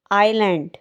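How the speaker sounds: आइलैंड said with no S sound; silent S. Shown as a demonstration. Teacher giving viewers the English word, S silent in आइलैंड. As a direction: say आइलैंड as eye-land, leaving the S silent. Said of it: "इसमें एस silent होगा".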